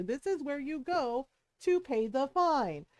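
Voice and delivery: slow, measured calm instruction; calm cop. Retold or imitated. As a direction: spell it out slowly and patiently. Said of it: "And he's very calmly telling her".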